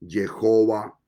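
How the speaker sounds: "Jehová" said as a separate, deliberate form; pronounced Jehová. Shown as a demonstration. Preacher listing forms of the Name, "Jehová" set apart. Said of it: "los que dicen".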